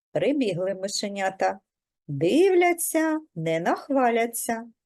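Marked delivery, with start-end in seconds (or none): none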